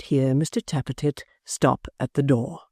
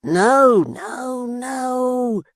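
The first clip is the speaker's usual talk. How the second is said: put-on higher, urgent young apprentice; hurried denial, half-hushed; Tappertit's voice; 10 semitones higher, 4 dB louder, much slower than usual. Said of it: "cried Mister Tappertit".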